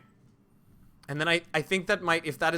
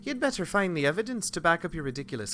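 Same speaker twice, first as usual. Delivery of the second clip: wobbly northern English with Irish creeping in; northern slipping into Irish; 2 semitones higher than usual. Acted. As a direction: attempt northern, let some Irish leak through. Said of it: "it's still slipping in Irish".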